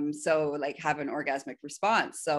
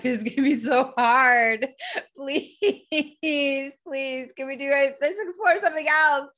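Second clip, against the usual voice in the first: mock whiny pleading; 10 semitones higher, 7 dB louder than usual. Submissive begging master to explore something else, whiny pleading. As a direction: beg like a whining child, hammed up.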